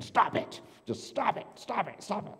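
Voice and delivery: loud, high repeated shouts; yelling stop. Retold or imitated. Therapist yelling at his patient again and again, loud. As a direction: bark it over and over. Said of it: "he interrupts her again".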